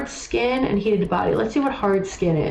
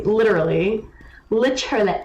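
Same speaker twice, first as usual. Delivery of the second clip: imitating Owl. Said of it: "That's how Owl talks".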